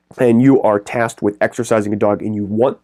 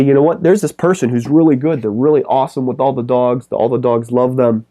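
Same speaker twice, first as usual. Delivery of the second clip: acted-out praise, higher at the start; enthusiastic recommendation; 3 semitones higher than usual. Park regulars recommending a dog sitter to a friend, acted enthusiastically. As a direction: talk someone up eagerly, as an imitated park regular.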